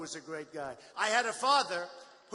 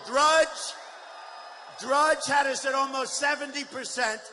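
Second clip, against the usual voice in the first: shouting the poll numbers to a cheering crowd; rally shout; 2 semitones higher, 6 dB louder than usual. Real, not acted. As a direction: belt it to the crowd.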